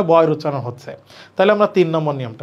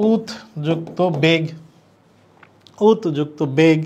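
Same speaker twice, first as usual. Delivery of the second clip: উত যুক্ত বেগ spelled out slowly; slow breakdown. Shown as a demonstration. Teacher breaking the word apart for students, slowly. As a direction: split উত যুক্ত বেগ into parts. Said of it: "এটাকে ভাঙলে পাবো".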